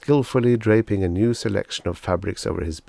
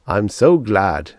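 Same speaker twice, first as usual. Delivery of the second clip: slow, louder, relieved; relieved salesman; 7 dB louder, slower than usual. Acted. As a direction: let it out with relief.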